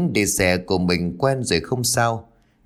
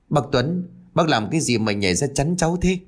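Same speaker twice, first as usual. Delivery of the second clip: mild yelp; 4 semitones higher than usual. Acted. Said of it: "la oai oái".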